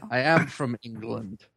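put-on a deliberately poor English accent, said grandly; hammed-up fake English accent. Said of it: "with my English accent".

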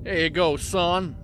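Southern drawl, fatherly and easy; slow southern drawl. Acted. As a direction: hand it over like a Southern host. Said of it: "Did you become Southern".

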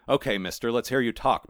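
lightly voiced cat; cat toying with its prey; Maurice the cat. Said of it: "Maurice began".

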